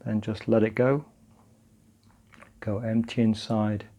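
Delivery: calm, unhurried practice guidance; guided meditation. Acted. Teacher leading partners through grounding and breathing, calm guided meditation. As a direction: guide them gently through it, leaving long pauses.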